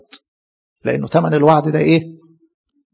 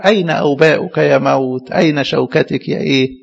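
proud challenge. Acted. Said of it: "فيقف النبي بقى في فخر".

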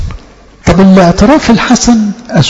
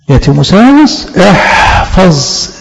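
called-out charge; 2 semitones higher, slower than usual. Acted. Preacher calls out the charge.

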